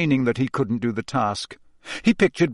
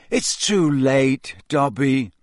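hopeless; slower than usual. Acted. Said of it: "Harry said hopelessly".

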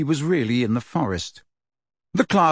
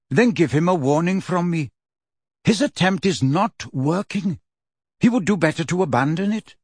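proud voice with horse snorts; 4 semitones higher than usual. A narrator's reading. Centaur Firenze voice.

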